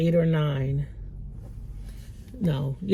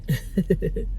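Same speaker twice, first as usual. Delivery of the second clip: crying; 7 semitones higher, much slower than usual. Real, not acted. Mother breaking down recalling leaving daughter, crying. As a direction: scold yourself through real tears.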